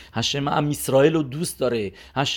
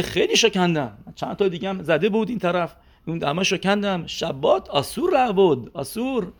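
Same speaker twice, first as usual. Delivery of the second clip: put-on Russian accent; 4 semitones higher than usual. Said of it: "به زبون لهجهٔ روسی".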